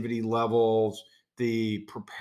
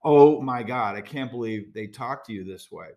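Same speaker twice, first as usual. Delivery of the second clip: horrified gasp; 4 dB louder than usual. Retold or imitated. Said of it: "she was just horrified".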